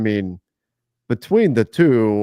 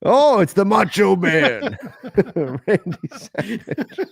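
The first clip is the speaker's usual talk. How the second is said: laughing; 8 semitones higher, much slower than usual. Real, not acted. Laughing at the impression.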